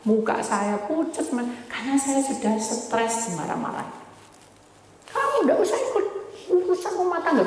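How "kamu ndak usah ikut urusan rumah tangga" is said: high, sharp mock husband telling her off; scolding husband. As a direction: play the rude husband shooing her away.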